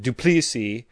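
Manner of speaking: "Duplessis" with a long "ee": doo-PLEE-see; mispronounced surname. Shown as a demonstration. Listing wrong versions of his name, long middle vowel. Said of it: "or they wanna pronounce it Duplessis".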